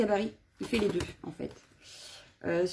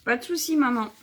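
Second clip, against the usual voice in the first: raised, higher voice calling to mum in the next room; 4 semitones higher, 5 dB louder than usual. Real, not acted. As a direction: call it out so mum hears. Answers her mother off-camera. (répond à sa mère hors champ, plus fort et plus aigu)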